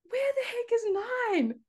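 high, baffled squeak; confused. Retold or imitated. Sub on the pitch wondering where nine is, high and baffled. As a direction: play it totally lost. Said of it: "I'm like".

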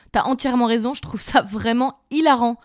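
deadpan sarcastic praise. Acted. Ironic reply to friend.

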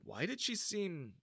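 usual speaking voice

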